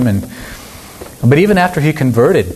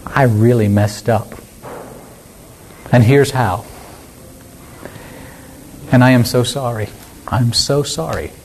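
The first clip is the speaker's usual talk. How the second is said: sincere apology; 2 semitones lower than usual. Acted. Preacher models simply admitting a mistake, sincere apology. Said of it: "we need to simply say".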